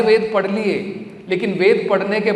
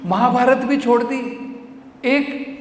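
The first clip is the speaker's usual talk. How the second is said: high, protesting objector; incredulous challenge; 6 semitones higher than usual. Acted. Objector questions devotee worshipping Nanda, high incredulous protest. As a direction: list each one in raised, reproachful disbelief.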